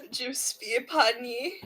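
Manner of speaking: mock oath. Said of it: "That's so good".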